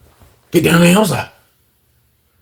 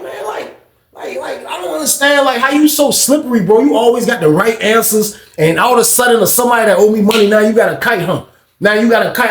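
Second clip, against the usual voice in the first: retold confrontation; 5 semitones higher than usual. Confronting the slippery guy.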